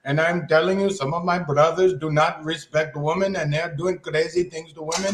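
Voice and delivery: lightly put-on South Asian uncle voice, joking; a hint of an immigrant uncle lecturing his brothers; put-on character voice. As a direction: hams up the voice of his own people, half-serious. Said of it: "I have to go into character and I must continue to talk like this".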